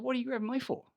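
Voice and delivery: high, loud indignant yell; shouting at the man grabbing him. Retold or imitated. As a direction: demand an answer, outraged. Retold confrontation.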